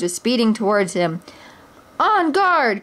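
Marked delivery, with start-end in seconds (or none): 2.0-2.8 bold cry. A narrator's reading. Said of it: "cried Robin Hood".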